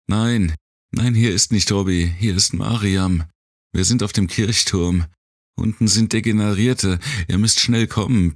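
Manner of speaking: put-on fast, high breathless girl pleading; a girl stumbling over words in panic; young girl voice. A narrator's reading. Girl answers radio in panic.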